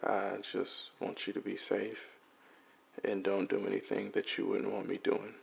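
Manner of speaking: worried message left on a phone; voicemail message. Acted. Man leaving his missing girlfriend a worried voicemail. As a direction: leave an anxious, tender voicemail.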